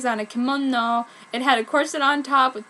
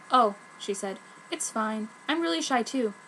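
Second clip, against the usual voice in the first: reassuring; 5 dB quieter than usual. Acted. Ichigo gently reassuring her.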